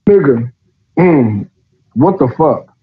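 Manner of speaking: talking through a yawn. Real, not acted. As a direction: yawn while speaking. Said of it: "Sorry about the yawning".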